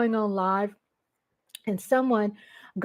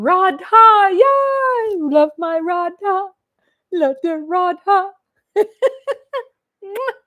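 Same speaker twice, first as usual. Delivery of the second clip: higher, louder joyful shout-out; excited cheer; 9 semitones higher, 6 dB louder, slower than usual. Real, not acted. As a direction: cheer for sister Radha. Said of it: "I really do get excited".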